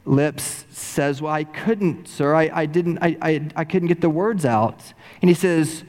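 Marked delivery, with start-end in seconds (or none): 1.2-4.9 stuttering. Retold or imitated. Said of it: "with his stuttering lips".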